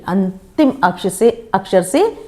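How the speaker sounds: अंतिम अक्ष से said slowly; patient teacher breakdown; slow explanation. Shown as a demonstration. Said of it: "अंत्याक्षरी".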